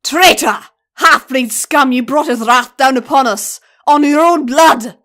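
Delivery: high, loud accusing roar; an enraged centaur shouting down his own; furious shout. Acted. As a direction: scream it at the traitor.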